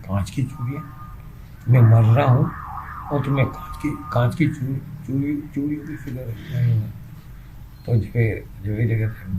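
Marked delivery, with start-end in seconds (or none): 0.0-6.8 surprised. Acted. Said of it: "حیرانی سے پوچھتا ہے".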